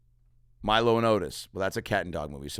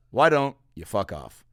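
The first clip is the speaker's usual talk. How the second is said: louder repeat; 4 dB louder than usual. Shown as a demonstration. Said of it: "repeat for emphasis".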